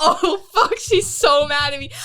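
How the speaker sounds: high, laughing; laughing panic. Retold or imitated. Retelling worry about her teammate, laughing. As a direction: laugh through mock alarm. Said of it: "I was like".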